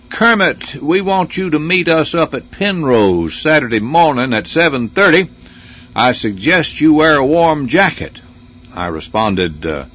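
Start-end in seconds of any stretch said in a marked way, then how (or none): 0.1-8.2 lightly imitated Southern drawl, pitched higher; a mild mock of an old Virginian doctor's Southern drawl. Doctor phoning the host about a rafting trip, in a light Southern drawl. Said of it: "He said in that Southern drawl".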